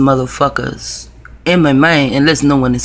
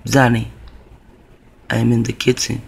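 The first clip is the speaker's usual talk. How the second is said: low, quiet menacing rasp; creepy raspy voice; 3 semitones lower, 5 dB quieter than usual. Retold or imitated. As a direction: whisper a threat from below. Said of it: "the raspy voice".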